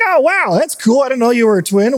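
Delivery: playing up his own wide-eyed wonder; mock surprise. Retold surprise at coworker's news.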